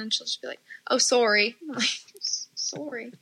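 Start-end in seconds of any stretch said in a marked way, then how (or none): 0.9-1.6 louder mock Canadian "sorry"; imitated Canadian accent. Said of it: "her little accent comes out". 2.5-3.1 put-on hushed Canadian-accented "sorry"; imitated Canadian accent. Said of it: "her little accent comes out".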